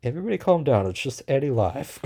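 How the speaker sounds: mock plea to calm everyone; exasperated mock appeal. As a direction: tell an overexcited crowd to settle down, starting high. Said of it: "And I'm like".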